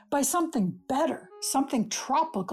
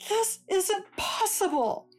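laughing in disbelief; giddy, disbelieving laugh; astonished laugh; 7 semitones higher than usual. Acted. Waking on the dream island.

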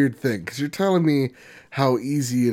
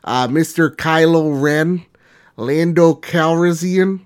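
put-on Minnesotan accent; 3 dB louder than usual. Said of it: "I'll do it in my Minnesotan accent".

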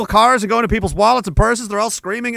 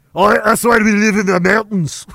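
put-on light Irish accent. Pale mountain folk explain themselves in a light Irish accent. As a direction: toss off the line in a passing Irish lilt. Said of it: "That was Irish".

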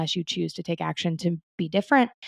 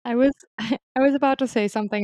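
laughing; 5 semitones higher, faster than usual. Real, not acted. Laughs before a gross joke.

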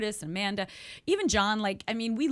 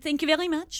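put-on French accent, higher pitched; 6 semitones higher, 3 dB louder, much faster than usual. Actress retells thanking the casting room in a French accent. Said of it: "talking with a French accent".

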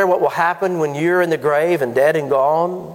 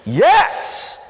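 mock congregation answer. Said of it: "we would answer that".

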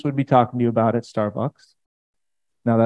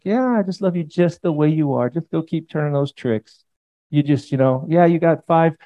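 lightly voiced easygoing Jesus, higher; hammed-up shrug of a pass; preacher mocking an anything-goes Jesus, mild mock voice; mock permissive Jesus; 4 semitones higher than usual. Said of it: "Jesus ... was like".

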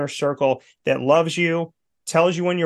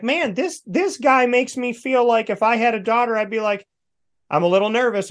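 mock nervous dad; 8 semitones higher than usual. Retold own reaction to Mahomes.

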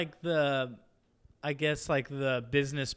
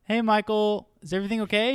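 Toby calling; 8 semitones higher, faster than usual. Retold or imitated. Toby calling through bathroom door.

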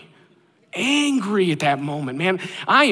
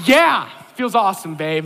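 sarcastic agreement; 4 dB louder than usual. Retold or imitated. Sarcastic reply to wife.

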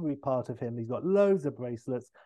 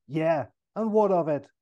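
louder, defensive Irish comeback; indignant; 4 semitones higher, 6 dB louder than usual. Acted. O'Brien teased about his school days, indignant. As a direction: bristle at the question.

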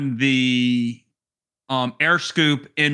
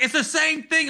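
mocking voice; 13 semitones higher than usual. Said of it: "they're like".

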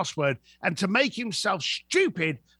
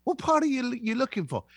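mock clueless mate; 4 semitones lower, faster than usual. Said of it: "And he's like".

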